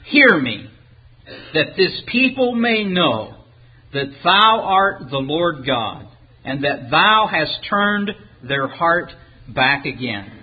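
slow, measured prayer read aloud; praying. Acted. Elijah asks the Lord to hear him, slow prayer. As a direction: pray it deliberately, phrase by phrase. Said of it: "Elijah prays".

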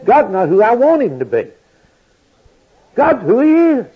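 preaching. Acted. Preacher telling the congregation God is who He is, preaching. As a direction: drive each statement home from the pulpit.

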